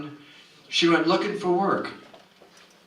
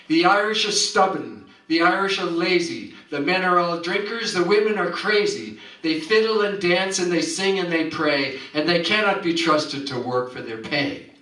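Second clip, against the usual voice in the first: scolding bigot; 3 semitones higher than usual. Acted. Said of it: "the man with a terrible scolding eye".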